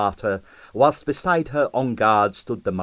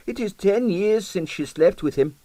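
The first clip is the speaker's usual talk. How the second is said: put-on Russian accent; 10 semitones higher than usual. A narrator's reading. Husband dismisses jealousy.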